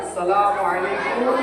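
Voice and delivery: slow, drawn-out salam for the class to copy; slow demo greeting. Shown as a demonstration. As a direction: say each syllable slowly. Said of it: "সালামটা কি বলতে হয়?". (ধীরে ধীরে সালাম)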